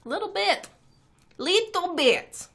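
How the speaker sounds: high, slow alien lizard drawl; creepy lizard person voice. Acted. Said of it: "That's my lizard person voice".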